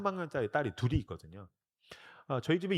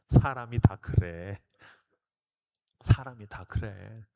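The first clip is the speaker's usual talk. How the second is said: slow, lower reassuring voice; gentle divine voice; 7 semitones lower, slower than usual. Retold or imitated. God gently answering the repenting pastor, slow and low. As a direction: speak kindly and slowly as God.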